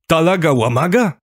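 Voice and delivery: high, incredulous shout of recognition; astonished yell. A narrator's reading. Driver recognising his old pal, astonished yell. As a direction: yell it up high as a surprised question. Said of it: "wrzasnął równie zdziwiony jak ja kumpel".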